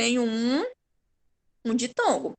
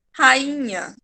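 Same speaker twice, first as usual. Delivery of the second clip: rainha slowed right down; slow demo; 3 dB louder than usual. Shown as a demonstration. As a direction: stretch the word rainha slowly. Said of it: "o som se arrasta mais".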